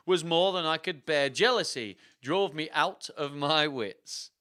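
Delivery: loud, slow theatrical declaration; hammed-up wooing with a laugh breaking in; ardent villain. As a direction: declare passion like a ham actor. Villain's ardent declaration in acted story.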